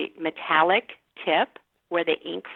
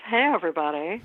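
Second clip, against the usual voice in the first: cheery bit-part greeting. Pretend. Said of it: "opens the door and says".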